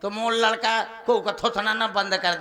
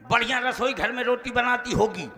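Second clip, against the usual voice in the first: ordinary talk, nothing marked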